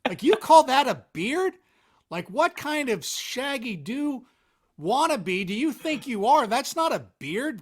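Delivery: loud, high trash-talking wrestler promo; hammed-up wrestling trash talk. Shown as a demonstration. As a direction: cut a promo at the mirror like a heel wrestler. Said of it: "every time I see a mirror, I wanna cut a promo".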